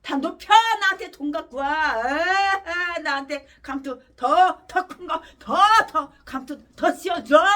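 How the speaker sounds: hammed-up gloating pastor with laughing cries; mock a pastor crowing for money and titles; sneering parody of a pastor demanding honours; mocking greedy pastor. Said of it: "이지랄하고".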